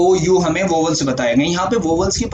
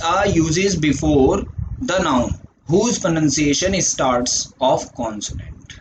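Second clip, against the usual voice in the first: slow dictation; much slower than usual. Shown as a demonstration. Teacher dictates rule slowly.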